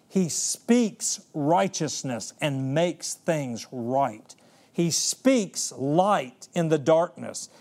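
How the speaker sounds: slow, weighty repeated cadence; slow preaching refrain. Acted. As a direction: build the refrain line by line, slowly.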